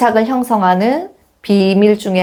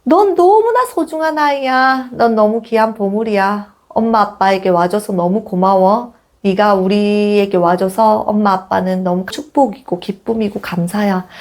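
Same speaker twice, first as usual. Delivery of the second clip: tender. Shown as a demonstration. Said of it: "이런 말들을 해줄 수 있다면".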